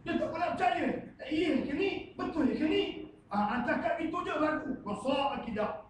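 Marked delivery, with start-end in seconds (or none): 1.2-2.8 doubting. Retold or imitated. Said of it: "Itu ragu lah tu".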